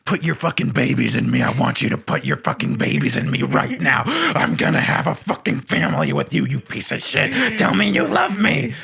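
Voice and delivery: hammed-up passionate demand. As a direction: ham it up like a desperate lover.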